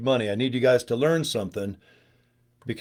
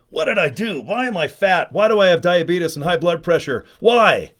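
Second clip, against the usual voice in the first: higher, louder mock despair ending on a loud cry of why; mock bewildered dieter; 4 semitones higher, 4 dB louder than usual. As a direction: play a puzzled snacker waking up bigger, hammed up. Mock viewer waking up fat.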